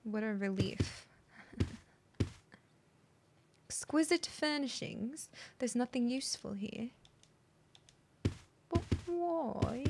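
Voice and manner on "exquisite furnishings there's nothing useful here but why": put-on lightly posed British accent, softened; softly spoken imitation British voice. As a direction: read it in a mock British accent. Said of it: "I'm gonna keep talking like this".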